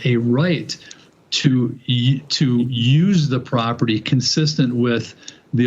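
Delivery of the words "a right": "right" said with deliberate emphasis; firm emphasis on "right"; stress on right. Real, not acted. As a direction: stress the word "right" to make the point. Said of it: "I stress that word".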